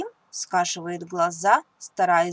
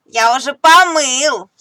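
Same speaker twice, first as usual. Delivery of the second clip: sly fib; 5 semitones higher, 13 dB louder than usual. Acted. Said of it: "хитрит Тим".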